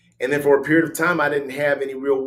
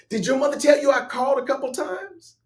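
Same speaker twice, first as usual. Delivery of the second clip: her voice; 12 semitones higher than usual. Retold or imitated. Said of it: "she says to me".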